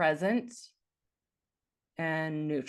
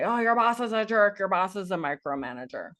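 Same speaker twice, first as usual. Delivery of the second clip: colluding gossip; 3 semitones higher, 5 dB louder than usual. Pretend. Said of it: "collude with them and say".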